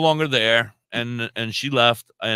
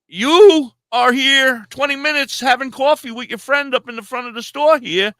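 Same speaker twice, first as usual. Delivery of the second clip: high, loud indignant tirade; loud outraged retelling; retold angry rant; 10 semitones higher, 4 dB louder than usual. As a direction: tear into her, outraged.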